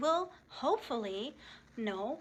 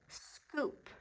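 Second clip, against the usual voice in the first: whispered choral; 5 semitones higher, 6 dB quieter than usual. Shown as a demonstration. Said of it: "Say it with me".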